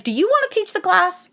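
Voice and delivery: high, sarcastic jab; mock the know-it-all; teasing scold; snarky retort. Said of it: "And she's like".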